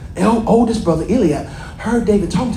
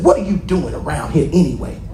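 a lower, gruff brother's demand; demanding Eliab; 6 semitones lower than usual. Acted. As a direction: challenge him like a jealous older brother. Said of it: "He demanded".

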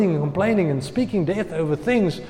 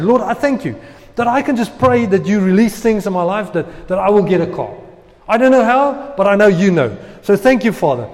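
hopeful prayer; 3 semitones higher, 5 dB louder than usual. Retold or imitated. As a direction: pray with rising faith and thanks. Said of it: "I said".

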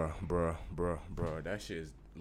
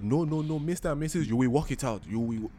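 Nigerian judge voice; 4 semitones higher than usual. Retold or imitated. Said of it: "He said".

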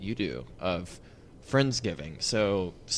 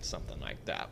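raspy, shot voice, nearly whispered; strained hoarse voice from yelling; 9 semitones lower, 11 dB quieter than usual. Real, not acted. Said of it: "My voice is a little shot".

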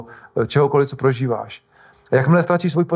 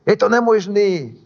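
drawn-out, higher-pitched mock yell; mock shout; 6 semitones higher than usual. Waves shouting back at Peter, drawn-out mock shout. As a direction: holler it slowly, imitating the waves. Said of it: "vlny na něj křičely".

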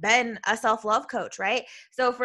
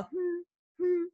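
high, soft stuck hum; halting high-pitched "hmm"; imitated stutter; 8 semitones higher, 6 dB quieter than usual. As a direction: mimic getting stuck with short high hums. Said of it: "I legit have a stutter".

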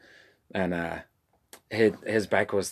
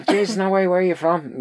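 mock excited; 10 semitones higher, 6 dB louder than usual. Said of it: "I went to him".

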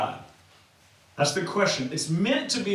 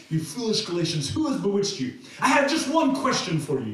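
mock-furious letter writer, pitch climbing. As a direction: scold them with mounting indignation. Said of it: "furiously or something".

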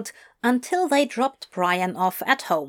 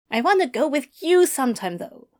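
complaining; 6 semitones higher, faster than usual. Acted. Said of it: "Brian complained".

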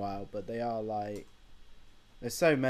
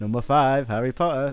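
bingo announcer; 6 dB louder than usual. Pretend. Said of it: "bingo announcer".

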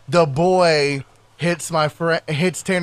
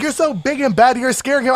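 higher-pitched imitation of a rival; mocking taunt; 6 semitones higher than usual. Imitating the girl defending a man, mocking taunt. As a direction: mimic her scolding up high.

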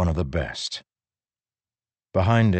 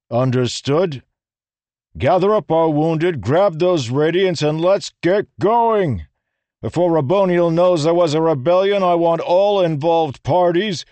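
high, loud urgent orders; commanding; 11 semitones higher, 6 dB louder than usual. A narrator's reading. Rlain ordering singers and humans out of the tower. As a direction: drive them all to move now.

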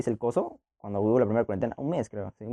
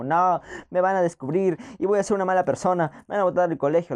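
retold panic; 4 semitones higher than usual. A high teen fearing school expulsion, mildly panicked. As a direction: replay the fear of getting caught, lightly. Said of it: "Estaba como asustado".

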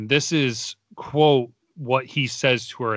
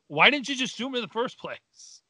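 higher, sighing disbelief; exasperated; 12 semitones higher, 3 dB quieter than usual. Real, not acted. Host mocking the pointless shootout, exasperated. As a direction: sigh it out in disbelief. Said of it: "exasperated sigh".

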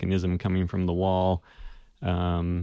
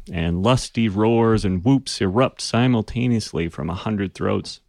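ordinary delivery

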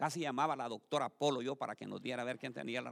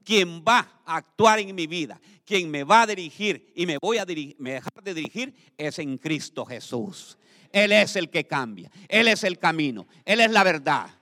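loud proclamation; 14 dB louder than usual. Shown as a demonstration. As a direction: proclaim it loudly to the congregation.

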